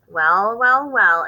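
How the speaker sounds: drawn-out admiring well well well. Acted. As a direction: savour the sight, impressed. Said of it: "with obvious admiration".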